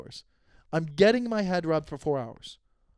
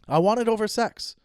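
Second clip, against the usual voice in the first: emphatic declaration; 6 semitones higher, 4 dB louder than usual. Real, not acted. Emphatic repeat.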